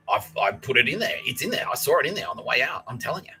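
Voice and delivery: rising, pleading insistence; lightly acted student defending himself; insistent protest. Student insisting he signed the book, insistent protest.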